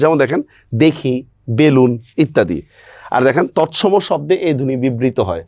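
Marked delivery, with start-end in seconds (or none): 0.8-1.1 দেখি with a closed e. Shown as a demonstration. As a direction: say দেখি as "dekhi", e kept close. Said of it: "সংবৃত উচ্চারণ হয়".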